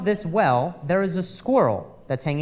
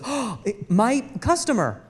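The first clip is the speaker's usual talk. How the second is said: mock fawning shopkeeper, higher and far off; clerk voice; 6 semitones higher than usual. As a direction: greet her like a sleazy shop clerk. Clerk greeting the regular.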